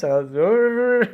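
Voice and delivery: high drawn-out wordless mumble; mumbled fake singing. Shown as a demonstration. Singer hiding lost lyrics behind the microphone, mumbling. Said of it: "I'll just, like, mumble".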